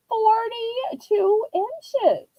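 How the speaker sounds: "Forty-two inches" drawn out very slowly; stress on size. Acted.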